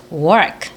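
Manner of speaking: "work" with the vowel pulled out long; lengthened, careful model of "work"; drawn-out work. Shown as a demonstration. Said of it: "자, 길게 뽑아서".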